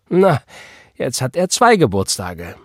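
delighted little quip, lifted with a smile; smiling. A narrator's reading. Church sister remarking on the saved boy's birthdays, smiling. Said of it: "sagte Sister McCandless lächelnd".

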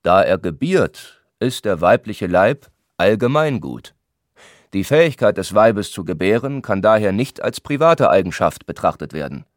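"private" given added emphasis; stress on PRIVATE. A narrator's reading. Lukas argues to the gentlemen, stressing the word "private". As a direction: lean firmly on the word "private". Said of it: "Er betonte das Wort private".

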